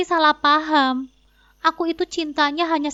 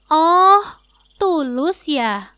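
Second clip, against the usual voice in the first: sarcastic scoff; 3 semitones higher, 6 dB louder, much slower than usual. Acted. Wife scoffing at husband's claim of sincere love, slow and sarcastic. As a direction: scoff at his word "tulus".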